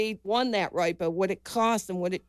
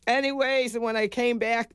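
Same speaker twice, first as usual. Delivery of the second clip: ordinary delivery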